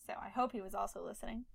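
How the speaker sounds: whispered aside. Real, not acted. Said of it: "I know Tim listened".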